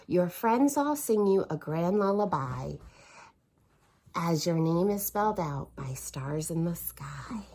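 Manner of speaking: whispered bedtime line; whispered reading. Acted. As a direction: whisper it like a lullaby. Reading bedtime book softly.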